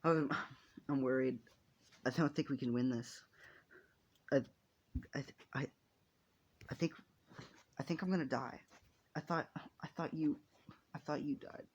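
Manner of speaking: halting, faltering words fading to a whisper; mildly tearful. Acted. Frightened hero hugging the friend they thought dead, mildly tearful. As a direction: start to cry a little, stumbling over the words. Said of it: "he would begin to cry a little".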